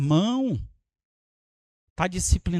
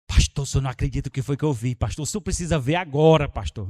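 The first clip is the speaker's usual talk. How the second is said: hurried gossip; 6 semitones lower, faster than usual. Retold or imitated. Man eager to report to pastor.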